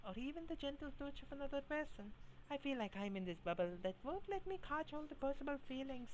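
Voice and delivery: high, lightly put-on Scottish accent for the idol; wistful idol in a mock Scottish accent; bad Scottish accent. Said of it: "her Scottish accent and a very bad one at that".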